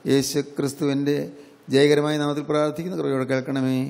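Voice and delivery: even, level-toned spoken prayer; closing prayer. Real, not acted. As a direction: pray aloud in a steady, slightly subdued chant-like flow.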